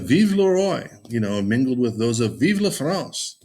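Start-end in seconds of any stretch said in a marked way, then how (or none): 0.0-0.9 high, mildly cheering cry; patriotic cry. Acted. Teacher reading out the crowd's cries, high patriotic cry. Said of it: "Cries of". 2.4-3.3 high-pitched mock crowd cry; patriotic cry. Teacher voicing cries mingled at the festival, high patriotic cry. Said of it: "Cries of".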